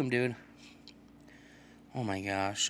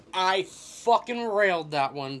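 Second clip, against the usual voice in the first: slow, higher gloating boast; drawn-out brag; 5 semitones higher, slower than usual. Real, not acted. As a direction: stretch the brag out. Bragging, drawn out.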